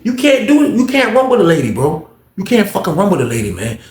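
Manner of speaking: high, exasperated telling-off; acted scolding. Friend warning inmate not to take on the officer, exasperated. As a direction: plead sense into him, pitch climbing.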